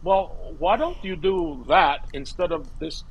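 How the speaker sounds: lightly voiced old teacher, dry and blunt; a hint of the teacher going blunt; Bella impression. Teacher bluntly dismissing her student's work, lightly voiced. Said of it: "you do a great impression".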